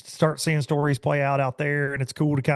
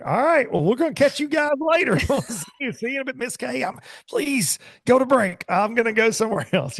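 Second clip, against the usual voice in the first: much higher, put-on cheery sign-off voice; awkward host signing off; 10 semitones higher than usual. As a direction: imitate a host desperate to cut away, pitched right up. Mimics host fleeing an awkward interview.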